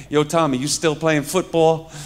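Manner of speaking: imitating a Bronx cousin calling out; lightly mocked Bronx talk; Bronx cousins' accent. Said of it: "they talk like this".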